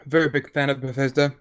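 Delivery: eating while talking; talking through a bite of sandwich; mouth full. Real, not acted. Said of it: "Sorry, I'm eating a bacon sandwich".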